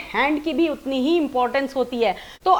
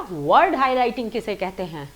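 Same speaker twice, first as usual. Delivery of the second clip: वर्ड pressed harder than हाइलाइटिंग; stress on word; 4 semitones lower than usual. Shown as a demonstration. Teacher showing learners where the stress falls, stress on वर्ड. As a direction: lean on वर्ड, the rest light. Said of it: "वर्ड पे मेरा एक emphasis था".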